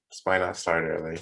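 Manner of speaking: ordinary talk, nothing marked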